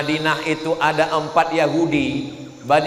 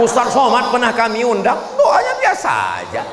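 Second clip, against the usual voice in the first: loud villager; 8 semitones higher, 3 dB louder than usual. Retold or imitated. Villager comparing loudly.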